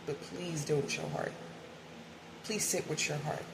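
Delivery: softly urging, hushed and sincere; gentle plea. Real, not acted. Urging viewers to sit with their heart, gentle plea. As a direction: plead softly.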